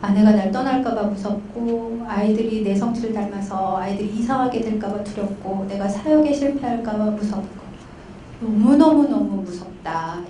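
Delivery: subdued, understated imitation of weeping client; a touch of sorrow, no real crying; retold tearful confession. Pastor client confessing fears to counselor, subdued retold tearfulness. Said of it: "그분이 갑자기 막 우시는 거예요".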